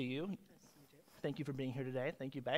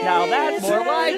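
catchphrase try; 3 semitones higher, 8 dB louder than usual. Shown as a demonstration. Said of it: "I'll try, I'll try I'll try".

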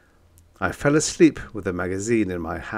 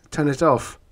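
high urgent demand; urgent plea; 7 semitones higher, 4 dB louder than usual. Acted. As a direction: demand it stop. Narrator pleads in steam.

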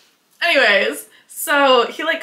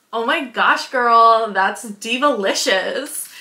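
imitating girly girl; slower than usual. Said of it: "she always says stuff like".

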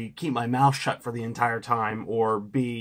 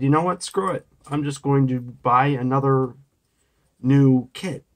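exasperated; 3 semitones higher, 5 dB louder than usual. Retold or imitated. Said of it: "then said".

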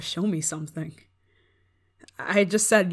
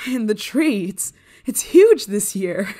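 amazed; 4 semitones higher, 10 dB louder, slower than usual. Acted. First sight of the tree.

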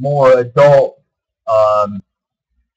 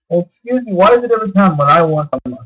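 higher-pitched, exasperated protest; indignant complaint; 6 semitones higher, faster than usual. Real, not acted. Man griping that his meal choice gets overruled, indignant. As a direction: push back in an affronted, raised pitch.

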